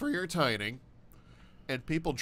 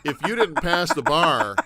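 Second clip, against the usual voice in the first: louder, laughing through the words; laughing joke; 10 dB louder than usual. Real, not acted. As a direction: tease with a laugh. Joking while laughing.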